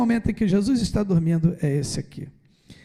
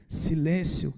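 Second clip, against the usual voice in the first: hushed command; 5 dB quieter, much slower than usual. Retold or imitated. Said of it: "como é que fala assim com a natureza".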